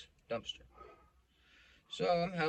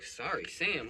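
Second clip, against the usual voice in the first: irritated cop echoing; 4 semitones higher, slower than usual. Retold or imitated. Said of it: "The cop is like".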